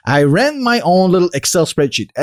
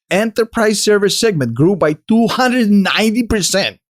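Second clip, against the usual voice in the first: slightly higher, lightly put-on German accent; 4 semitones higher than usual. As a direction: slip into a hint of a German accent. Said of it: "I had this German accent".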